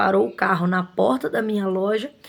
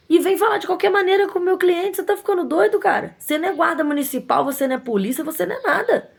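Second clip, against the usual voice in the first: higher and heated, rising as she goes; indignant telling off; 6 semitones higher than usual. Retold or imitated. Shop owner retelling how she scolded the attendant, indignant. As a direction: put him in his place, incredulous.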